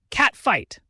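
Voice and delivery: high, loud whoop; excited yell. A narrator's reading. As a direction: yell it out, thrilled by the fight. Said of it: "Zach yells in excitement".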